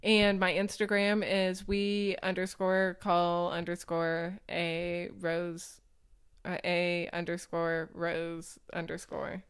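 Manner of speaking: slow, spacey and foggy; stoned. Real, not acted. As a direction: talk slow and muddled, a bit high. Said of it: "I'm sorry, I'm high".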